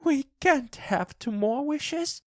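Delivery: very high-pitched, excited wife; frantic cry. A narrator's reading. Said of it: "she cried".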